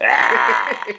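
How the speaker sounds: drawn-out mock yell; Samoan wrestlers' yell. Co-host imitating Samoans looking at the camera, mock yell. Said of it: "looking at the camera going".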